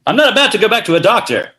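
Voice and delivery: defiant detective retort; noir dialogue. Acted. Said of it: "as a film noir".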